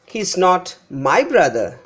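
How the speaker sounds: "my brother" given the weight, falling at the end; he is not MY brother, as a correction; stress on MY BROTHER. Shown as a demonstration. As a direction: lean on my and brother. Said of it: "Here my brother is given more importance".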